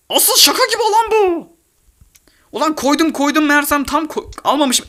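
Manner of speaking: very high, laughing disbelief; high squeaky laughing; laughing squeal. Real, not acted. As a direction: laugh at your own blunder. Laughing at own mistake.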